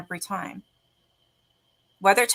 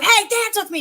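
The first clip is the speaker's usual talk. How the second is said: hammed-up call, higher and louder; mock yell; 12 semitones higher, 7 dB louder than usual. Aunt mocking nephew yelling at girls, a high loud mock shout. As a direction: playfully imitate him yelling at the girls. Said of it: "Yelling at them to dance with you?".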